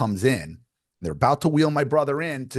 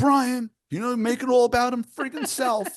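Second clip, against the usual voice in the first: mock angry, pissed-off complaining voice, higher in pitch; 13 semitones higher than usual. Retelling what their brother said on the phone, imitating angry brother. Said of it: "he was pissed".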